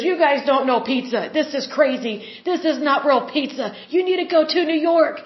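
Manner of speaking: imitating an offended friend, mildly worked up; intense indignation. Imitating a New Yorker scolding Oklahomans about pizza, mildly intense. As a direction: play a mildly indignant pizza purist, lifting at the end. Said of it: "he was seriously that intense".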